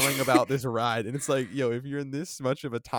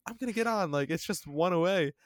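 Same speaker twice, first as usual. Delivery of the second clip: imitating teen boy; 7 semitones higher than usual. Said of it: "And the guy's like".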